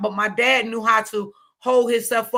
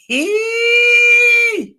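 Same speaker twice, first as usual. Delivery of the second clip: laughing outburst; 13 semitones higher, 8 dB louder than usual. Real, not acted.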